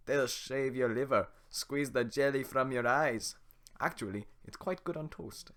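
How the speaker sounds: loud, slow, gleeful ogre; Shrek voice. Acted. Shrek relishes scaring the villagers, in a loud slow ogre voice. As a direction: savour each gory word. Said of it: "the Shrek voice".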